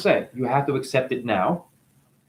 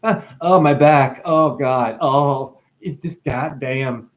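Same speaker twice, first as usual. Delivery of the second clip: mock complaining; slower than usual. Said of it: "you would complain".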